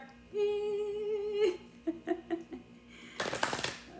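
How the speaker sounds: sustained high squeal trailing into laughter; high held note breaking up; long high squeal. Real, not acted. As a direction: squeal high, then let it fade out. Own sound after favourite-word question.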